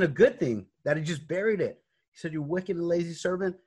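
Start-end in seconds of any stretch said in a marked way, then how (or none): 2.3-3.6 higher, quicker mock scolding; a master's indignant telling-off, imitated; retold rebuke. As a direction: scold lightly in a raised pitch. Master's rebuke repeated, more briskly.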